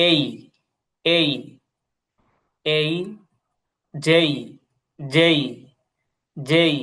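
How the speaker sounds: each letter name said slowly, three times, with pauses; teacher drilling letter names. Shown as a demonstration. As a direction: spell out each letter clearly, one by one. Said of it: "খেয়াল করেন".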